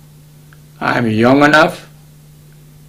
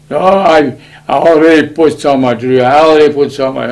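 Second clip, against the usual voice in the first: a raised, protesting voice; loud protest; 2 semitones higher, 6 dB louder than usual. Retold or imitated. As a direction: refuse loudly, insisting you've already given enough. Relative refusing to pay.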